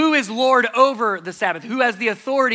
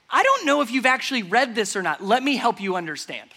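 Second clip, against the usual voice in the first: sarcastic; 3 semitones higher than usual. Retold or imitated. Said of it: "For Jesus to say".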